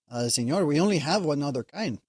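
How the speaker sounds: put-on lightly done Hispanic accent waiter; hint of a Hispanic accent. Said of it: "only way I can do a Hispanic accent".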